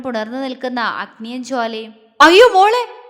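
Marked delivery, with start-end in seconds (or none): 2.2-3.0 loud, high anguished wail; wailing cry. A narrator's reading. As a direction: scream in panic for her daughter. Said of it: "Arundhati കരഞ്ഞു വിളിച്ച്". (കരഞ്ഞു വിളിക്കുന്ന നിലവിളി)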